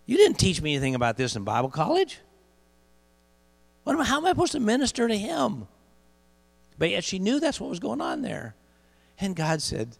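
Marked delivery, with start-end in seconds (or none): 0.0-5.7 high, pleading cry at God; retold scream at God. Wife crying out to God over the boy. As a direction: cry out to God in frustrated disbelief. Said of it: "she screamed out at God".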